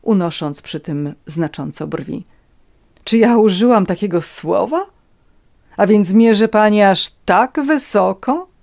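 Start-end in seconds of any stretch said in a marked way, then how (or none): 3.0-8.5 louder, higher mocking questions; haughty, incredulous questioning; scornful challenge. A narrator's reading. Countess mocks Natalia for aiming high, scornful.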